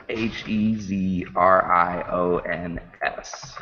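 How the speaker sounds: each letter spelt out slowly; slow careful spelling. Shown as a demonstration. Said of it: "Can you spell that Twitter handle, please?".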